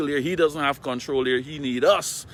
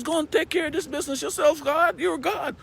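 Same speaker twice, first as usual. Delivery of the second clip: imagined plea. Retold or imitated. Imagined plea that God act himself.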